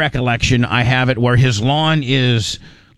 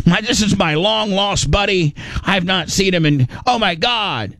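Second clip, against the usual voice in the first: higher-pitched imitation of gushing delight; mock overjoyed; 6 semitones higher than usual. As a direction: greet a long-lost buddy, hammed-up. Acts out boy's overjoyed hug.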